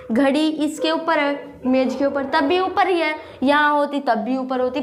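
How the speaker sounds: ordinary delivery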